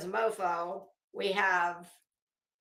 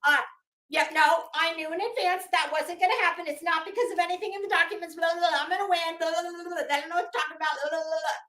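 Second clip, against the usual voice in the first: higher, fast, sing-song mockery of her excuses; mocking impression; 5 semitones higher, much faster than usual. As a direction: rattle it off like a dismissive, self-important woman. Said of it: "it's gonna be".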